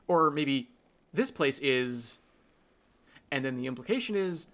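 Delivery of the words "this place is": slow "This place is", left hanging after "is"; unfinished "This place is", drawn out with no ending; trailing off unfinished. Retold or imitated. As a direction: let "This place is" drag and stop mid-thought. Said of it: "they trail off".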